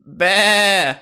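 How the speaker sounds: a short sheep bah; sheep bleat. Shown as a demonstration. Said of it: "show us what that sounds like".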